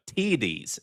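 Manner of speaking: "T Ds" said as tee-dees, long ee; drawn-out pronunciation. Shown as a demonstration. Host showing chat how you say it, "T Ds" as tee-dees. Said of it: "is how you say it".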